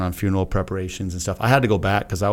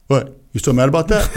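amused, raised voice, chuckling through it; laughing tease; 5 semitones higher, 5 dB louder than usual. Retold or imitated. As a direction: tease him while laughing. Friend teasing after argument.

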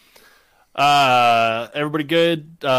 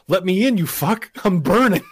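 yelling in pain; 5 semitones higher than usual. Pretend. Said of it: "I'm gonna go".

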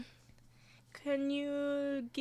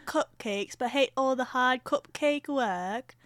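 slow salesman pitch, lightly voiced; a hint of cartoon cat hawking a gadget; Cat in the Hat pitch; 3 semitones higher, 4 dB louder, slower than usual. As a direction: sell the gadget like a TV ad, slowly. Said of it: "What's another line from Cat in the Hat?".

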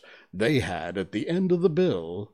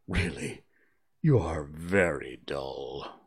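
angry; 4 semitones lower, slower than usual. Acted. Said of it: "said the Mock Turtle angrily".

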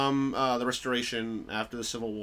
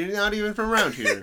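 put-on Brooklyn accent; 7 semitones higher, 3 dB louder than usual. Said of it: "you're doing the Brooklyn version".

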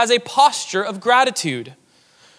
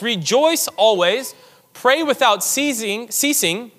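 slow solemn quote; 3 semitones higher, slower than usual. Acted. Quoting scripture with weight.

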